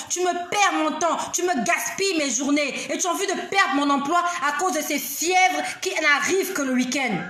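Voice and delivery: reenacted exasperated outburst; fed-up inner cry. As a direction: list the grievances, fed up. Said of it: "j'ai crié comme ça dans mon cœur".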